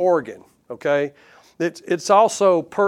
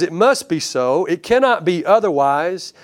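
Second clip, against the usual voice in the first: emphatic preaching; 3 semitones higher, 4 dB louder than usual. Retold or imitated. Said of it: "He says".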